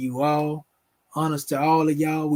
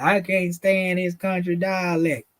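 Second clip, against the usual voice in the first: mocking critics; 4 semitones higher, slower than usual. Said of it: "when you go to talking like that".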